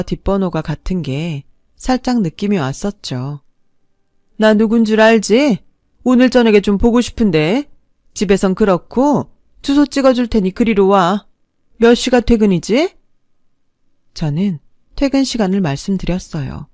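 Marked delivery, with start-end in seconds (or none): 4.4-12.9 lightly voiced domineering mother, higher pitched; imperious future mother-in-law. Boyfriend's mother calls to order a meeting, imperious. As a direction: summon her as if she has no choice.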